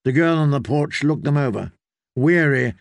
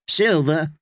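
put-on higher girl's voice, questioning; girl asking payment; 4 semitones higher than usual. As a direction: ask for silver as a wary child. Willow asks guests for payment.

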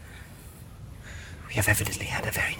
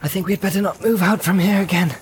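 whispering; 7 semitones higher, 5 dB quieter than usual. Acted. Whispering in hiding.

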